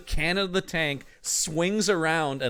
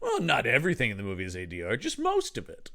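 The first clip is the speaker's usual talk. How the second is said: mock defensive; 3 semitones lower, 3 dB quieter than usual. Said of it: "I love the idea of".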